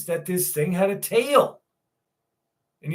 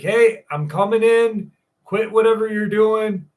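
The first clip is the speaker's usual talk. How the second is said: higher, louder call through the door; calling out a warning; 5 semitones higher, 4 dB louder than usual. Retold or imitated. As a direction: shout a warning to whoever's inside. Calling through closed stall door.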